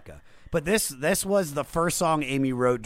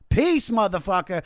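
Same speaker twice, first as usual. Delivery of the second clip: mock brush-off; 9 semitones higher, 6 dB louder than usual. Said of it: "you're gonna fucking".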